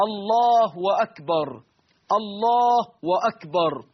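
الله stretched slowly into allaahu with an added w; mock overlong takbir. Shown as a demonstration. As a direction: drag the u of الله into a w. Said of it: "إشباع ضمة لفظ الجلالة حتى تتحول إلى واو".

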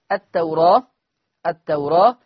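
التوراة with the alif leaning toward e, rising; taqlil on alif. Shown as a demonstration. Teacher demonstrates taqlil of التوراة for students. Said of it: "الألف مقللة قولا واحدا".

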